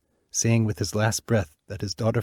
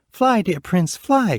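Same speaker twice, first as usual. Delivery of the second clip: higher, louder desperate cry; urgent cry; 11 semitones higher, 6 dB louder, slower than usual. Acted. Princess urging the bluebird to flee, crying out loud. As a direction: urge him to escape now. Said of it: "cried Florina".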